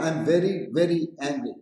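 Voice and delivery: very, very stretched and stressed. Shown as a demonstration. Reading the clumsy example to a student, leaning on very. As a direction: lean on the repeated very. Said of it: "Why will I write very, very?".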